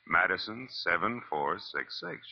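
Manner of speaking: slow, careful spelling of the number; spelling it out slowly. Shown as a demonstration. Detective spelling out the phone number for Shelley. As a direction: lay out each letter and digit slowly. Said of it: "You get it?".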